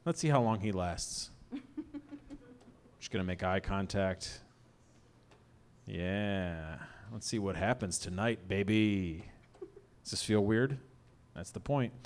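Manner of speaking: low, hushed, unhurried aside; low murmur with long pauses; quiet deadpan. Pretend. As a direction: let the awkwardness sit, softly. Deadpan awkward lull after shouting.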